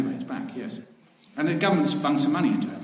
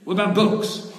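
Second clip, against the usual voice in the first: eager pitch; 7 semitones higher, 5 dB louder than usual. Retold or imitated. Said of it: "I went to see him and said".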